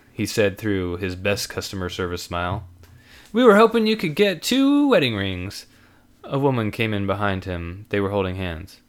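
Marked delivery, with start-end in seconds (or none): 3.3-5.7 put-on young man voice. Customer voiced.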